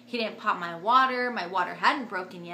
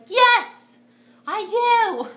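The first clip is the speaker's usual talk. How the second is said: much higher and louder eager cry; desperate yes; 13 semitones higher, 13 dB louder, much slower than usual. Retold or imitated. To the anesthesiologist offering an epidural, a high loud eager yes. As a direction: grab at the offer like a lifeline.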